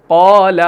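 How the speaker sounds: full, heavy aa in قال; thick alif. Shown as a demonstration. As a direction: recite قال with a rounded, dark aa after qaf. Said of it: "اس کو موٹا پڑھا جائے گا".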